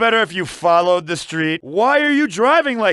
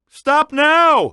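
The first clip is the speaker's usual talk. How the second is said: alarmed shout; 6 semitones higher, 3 dB louder than usual. Acted. Passenger panics at reckless driving.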